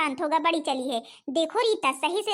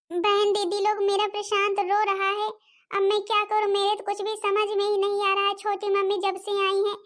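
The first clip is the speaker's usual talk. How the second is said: put-on slightly higher girl's voice, helpless; worried big sister; 4 semitones higher than usual. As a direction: fret over a crying little brother. (परेशान दीदी की आवाज़)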